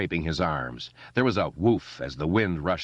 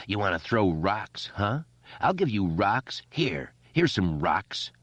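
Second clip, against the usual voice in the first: crazed bully. Acted. Henry grinding gravel in.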